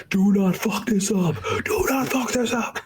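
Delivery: high, strained put-on cop voice; mock tense cop. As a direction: pray into the wire, tense. Cops talking into the wire.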